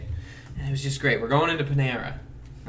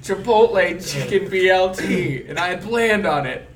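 high, louder imitation of an upset friend; mock mad complaint; 6 semitones higher, 4 dB louder than usual. Friend lamenting the lunch he planned on, mock mad. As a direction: whine it in hammed-up indignation. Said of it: "Why are you mad?".

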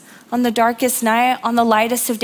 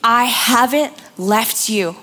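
God's tender reassurance. Retold or imitated. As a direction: speak as God comforting a frightened child. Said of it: "God's reminder saying".

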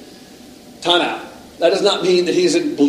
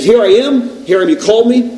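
raised, loud, eager reply; eager answering call; 7 semitones higher, 7 dB louder than usual. Acted. Boy Samuel runs to answer Eli, eager. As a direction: answer brightly as if summoned, higher and louder.

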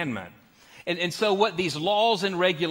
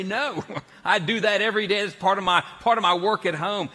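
playful mock refusal; 4 semitones higher than usual. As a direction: lightly imitate a wife firmly objecting. Voicing wife's imagined refusal.

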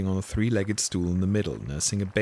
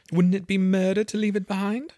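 said out loud; 12 semitones higher, 4 dB louder than usual. Acted. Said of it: "She said the last words out loud".

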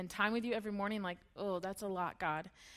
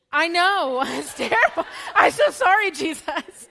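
loud, high, overwrought apology with laughter; mock confession; 7 semitones higher, 12 dB louder than usual. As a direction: wail a hammed-up apology through laughs. Mock confession of stealing gum.

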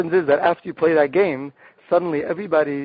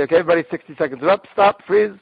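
fast, then a louder call to freeze; calling the group to stop; 3 semitones higher, 4 dB louder, faster than usual. Shown as a demonstration. Leader calls time on the game, rapid then loud.

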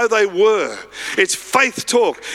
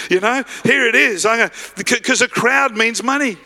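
acted excitement, a little lifted; excited beggar. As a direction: play a beggar spotting his big chance. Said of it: "He's all excited here".

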